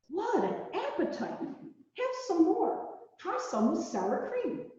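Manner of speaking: amused and high; laughing. A narrator's reading. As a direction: chuckle with delight. Laughing at bear eating.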